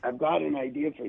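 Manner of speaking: lightly attempted impression of a comedian; half-hearted impression of the show's star; Larry David. Guest retells the star's phone call, lightly attempted impression. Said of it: "this is horrible Larry David impression".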